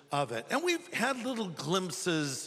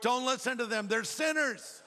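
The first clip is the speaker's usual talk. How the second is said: higher, urgent protest, lightly voiced; pleading Paul; 5 semitones higher than usual. Paul in heaven begs the Lord not to listen, higher urgent plea.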